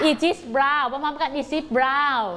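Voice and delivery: slow, clear reading together; slow choral reading. Shown as a demonstration. Teacher leading pupils to read together, slow. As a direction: lead the class through it slowly.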